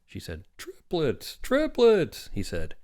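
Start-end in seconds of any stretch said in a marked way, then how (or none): 0.6-2.3 high exclamation, rising on the repeat; excited announcement. A narrator's reading. Doctor announces the birth to the woman, excited. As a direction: announce it bigger the second time, falling endings.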